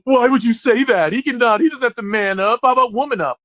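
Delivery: gasping, mock-scandalised voice; offended scold. Mocking critics offended by man up, gasping and prim. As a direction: clutch pearls and object. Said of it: "somebody going".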